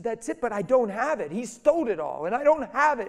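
upset outburst imitating a bawling woman; mock bawling. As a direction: wail it in distress, acted out. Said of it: "And she's bawling".

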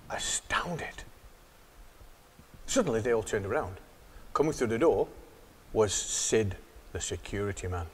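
soft, hushed storytelling; hushed narration. A narrator's reading. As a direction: keep it low and tense.

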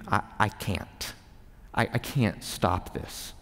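breathy whisper of defeat, barely voiced; hopeless whisper. Struggling man whispers his despair to himself, hushed. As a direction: whisper it like someone who has given up. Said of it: "where you think".

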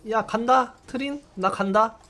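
high excited call. Real, not acted. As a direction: call out to your teammate. Calling to teammate, charging in.

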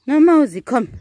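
pet talk. Real, not acted. Coaxing an animal.

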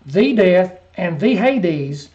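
slow, "The" stressed before "death" and "Hades"; stress on the articles. Shown as a demonstration. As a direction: weigh each "The" to point out a specific death. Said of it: "he's talking about a specific death".

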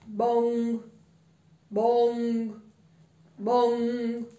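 imitated clock bell, level and ringing; bell strikes. A narrator's reading.

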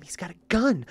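mock-dramatic emphasis on the word "gun"; stress on gun. Mocking people alarmed by a weapon, heavy stress on "gun". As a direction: lean on "gun" and draw it out. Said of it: "they emphasize the word gun".

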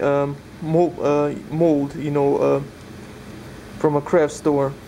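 muffled behind a respirator mask; talking through a face respirator. Real, not acted. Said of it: "hard to talk with the respirator on".

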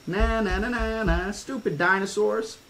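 put-on high, singsong childish taunt. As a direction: jeer at the dinosaurs like a bratty kid. Girl taunts the dinosaurs.

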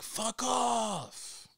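high, sharp mock dismissal of a mother; mom brushing off. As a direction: toss it off in a shrill mocking mom voice. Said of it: "she was very like".

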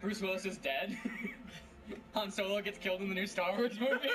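laughing. Real, not acted. Spoiling films through laughter.

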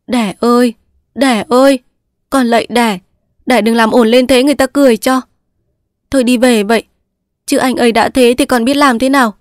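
mếu máo, begging her mother-in-law; a hint of tears in a pleading voice; whimpering daughter-in-law. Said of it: "mếu máo".

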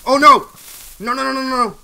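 loud cry of alarm. Real, not acted. Gamer reacting to the game going badly, loud alarm. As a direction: blurt it out as things go wrong.

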